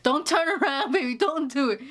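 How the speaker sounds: imitating mom begging; mom pleading. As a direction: coax him not to turn, like mama.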